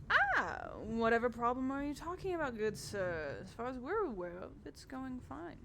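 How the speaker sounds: lightly voiced assured gentleman; smooth Philip. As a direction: brush it off like a polished steward. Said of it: "Philip ... leans in and goes".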